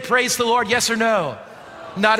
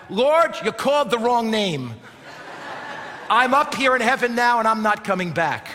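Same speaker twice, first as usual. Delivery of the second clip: mildly raised, playful yell; mock yell back. Man in heaven refusing the Lord's call, mock yell. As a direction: protest back up to the Lord, half-yelled. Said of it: "yelled back".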